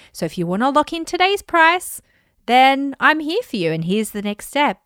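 a hint of a polite robotic helper; Alexa voice. Shown as a demonstration. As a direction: sound like a cheerful voice assistant. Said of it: "I'm doing it in my, like, Alexa voice".

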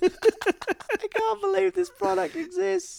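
high, slow and incredulous; stunned disbelief. Real, not acted. Friend marvels at a weed coffin, slow and incredulous. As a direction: stretch it out, unable to believe it.

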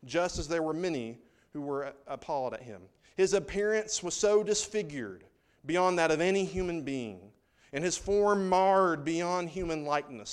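solemn scripture read to the church. Acted. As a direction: read the prophecy with weight. Reads Isaiah passage aloud.

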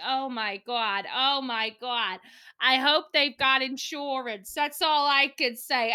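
slow, hammed-up glee over bad news; mock a woman a bit too pleased by disaster; almost gleeful. A woman gossiping about a sunk boat, mildly gleeful. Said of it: "And she's almost gleeful".

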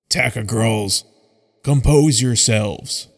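a lightly voiced commanding leader, slowing on the last words; a hint of a big male calling his trainees to order; deep roaring leader. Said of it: "speaks in a deep, roaring voice".

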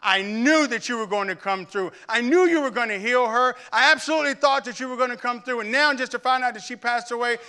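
put-on reliving a grieving teen yelling at God; anguished cry to God. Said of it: "And I was like".

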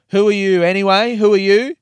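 loud, high, hostile questioning; imitated abuse. Departing housemate turning on the guest, imitated angry challenge. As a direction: play the aggressor rounding on someone. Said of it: "hurling abuse and going".

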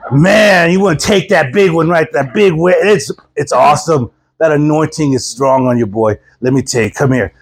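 a hint of laid-back surfer, dropping in pitch; hippie surfer pastor. Surfer pastor encourages the preacher, lightly played surfer voice. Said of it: "the hippie surfer".

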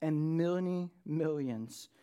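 slow, weighty preacher's reading; measured pulpit reading with deliberate pauses; dramatic scripture reading. Acted. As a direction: proclaim the vision slowly, letting phrases hang. Reads scripture aloud to congregation.

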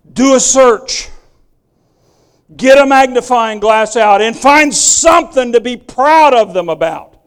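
preacher driving the point home. Acted. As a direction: press it on the fathers. Preacher urges fathers.

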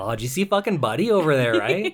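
mock Canadian accent. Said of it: "this is what we sound like".

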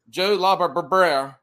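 Joe Labarberera in a lightly put-on country accent. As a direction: mangle Joe Labarberera with a slight Southern twang. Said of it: "that's the best I can do with my country accent".

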